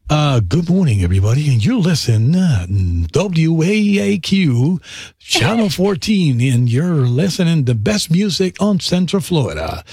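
slow, hammed-up English radio DJ announcing the station; lightly voiced nineties English radio DJ; radio host demo. Shown as a demonstration. S0 shows how he sounded on English radio, hammed-up DJ patter. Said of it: "tirando un ejemplo de cómo era".

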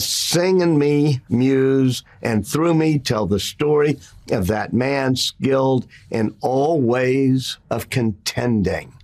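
slow, measured verse reading; poem recital. Retold or imitated. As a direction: read it like an epic poem, unhurried. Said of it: "he would read it to class, and he begins with".

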